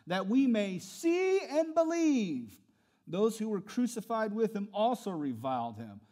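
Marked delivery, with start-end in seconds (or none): 0.1-2.6 louder, slow sneering taunt; mocking chief priests. Chief priests mocking Jesus to one another, sneering taunt. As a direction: scoff at him among themselves. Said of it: "chief priests mocked him".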